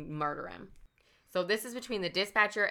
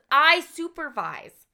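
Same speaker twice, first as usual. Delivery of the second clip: flustered social worker; 9 semitones higher, 7 dB louder, slower than usual. Retold or imitated. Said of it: "She says".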